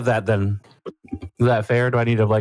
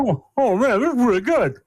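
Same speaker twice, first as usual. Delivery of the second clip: delighted; 10 semitones higher than usual. Acted. Character tastes the croissant.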